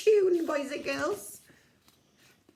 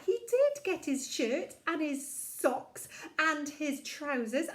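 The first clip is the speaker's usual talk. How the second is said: put-on kids show host. Leading kids' memory game.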